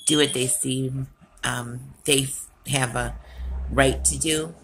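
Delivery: pushing the words out in frustration; real rising anger. Real, not acted.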